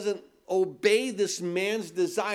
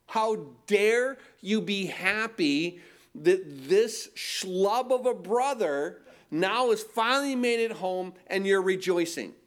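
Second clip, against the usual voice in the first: put-on resentful older brother. Preacher voicing resentful older brother.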